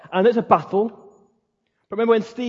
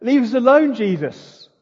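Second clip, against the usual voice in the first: high, loud pleading of a fleeing demon; mock-scared demon plea; frightened demons; 4 semitones higher, 5 dB louder than usual. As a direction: beg to be left alone, rising in fear. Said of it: "They go".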